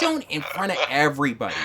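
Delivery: mild mock yell; imitation of a wife telling off her husband; imitated yelling wife. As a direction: scold him across the table, half-hearted. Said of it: "my wife is across the table yelling".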